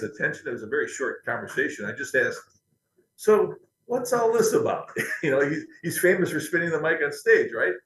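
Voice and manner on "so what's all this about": curious, eager question. Retold or imitated. Asking star about mic swinging.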